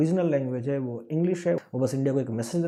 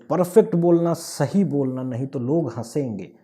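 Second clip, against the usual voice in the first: ताकीद करते हुए, पहले ज़ोर से; बच्चे को डाँटते माँ-बाप की हल्की नकल; mock parental warning; 4 dB louder than usual. (माँ-बाप की चेतावनी की नकल, ज़ोरदार शुरुआत)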